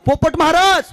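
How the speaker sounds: talking to parrot. Acted. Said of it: "त्या पोपटाशी बोलायची".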